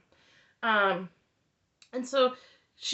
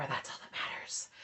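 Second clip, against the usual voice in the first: snide whisper under the breath; whispered aside; 14 dB quieter than usual. Real, not acted. Aside to viewers about Robin, whispered. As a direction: drop to a whisper, half to yourself.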